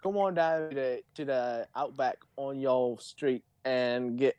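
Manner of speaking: a weak, slowed attempt at an Australian ad voice; half-hearted Australian commercial accent. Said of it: "you don't even sound Australian".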